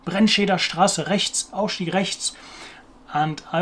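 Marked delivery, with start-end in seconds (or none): 0.1-2.4 higher-pitched drill of the R in "rechts" and "Straße"; German R practice. Shown as a demonstration. Learner showing how they practised saying rechts, German R drill. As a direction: drill the R's in "Brennscheder Straße rechts, Ausstieg rechts". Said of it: "practice saying rechts".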